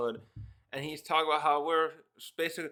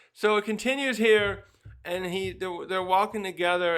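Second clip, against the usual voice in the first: higher, louder burst; excited; 4 semitones higher, 5 dB louder than usual. Real, not acted. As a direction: bounce into the next part. Excited narration.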